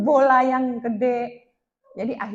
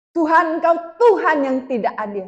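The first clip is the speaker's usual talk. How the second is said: raised, pleading complaint to God; mock tearful protest; 3 semitones higher, 4 dB louder than usual. Woman protesting to God that He is unfair, imitating a tearful cry. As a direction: imitate crying out an accusation, mildly tearful. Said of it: "Sambil nangis nih".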